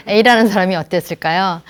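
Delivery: normal talking voice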